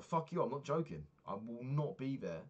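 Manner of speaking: re-enacted heated refusal; retold angry retort. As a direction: push back hard, refusing to be brushed off. Retelling his refusal to friend.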